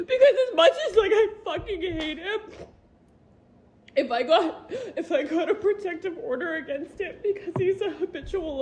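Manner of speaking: teary, half-laughing voice; torn, laughing through tears; crying while talking. Real, not acted. Mother explains why she won't file the order, teary. Conflicted and tearful about her husband.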